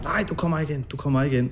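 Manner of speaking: a hint of panicked blocking the door; hysterical refusal. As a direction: partner holding the door shut, lightly imitated hysteria.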